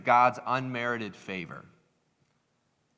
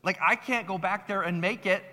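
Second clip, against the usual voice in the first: mildly heated mock argument; retold indignant back-and-forth in a higher voice; getting so mad; 5 semitones higher than usual. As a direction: imitate bickering customers, pitched up. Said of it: "they were, like, getting so mad".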